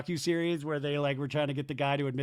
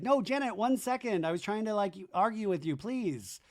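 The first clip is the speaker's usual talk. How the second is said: higher, whiny imitation of Zach; mock pleading; 5 semitones higher than usual. Zach begging Janet to stay, mock pleading. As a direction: plead like a put-out guy.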